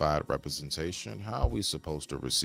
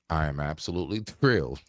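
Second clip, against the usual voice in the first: laughing through it; faster than usual. Real, not acted. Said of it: "I'm trying to say this with a straight face".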